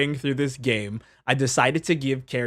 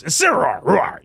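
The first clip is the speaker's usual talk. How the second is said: Pokemon cry; 3 semitones higher, 3 dB louder than usual. Retold or imitated. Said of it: "he just goes".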